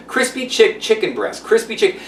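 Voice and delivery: crispy chick stumbled and cut short, chicken breast rushed; fumbling the tongue twister; tongue-twisted. Shown as a demonstration. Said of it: "it's a tongue twister".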